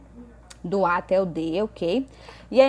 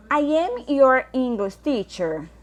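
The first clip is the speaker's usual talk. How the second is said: very slow, higher and louder reading; slow model reading; 6 semitones higher, 5 dB louder, much slower than usual. Shown as a demonstration. Teacher reading item C to students, very slow and high. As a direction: read the sentence out slowly like a dictation. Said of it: "teacher reads exercise item".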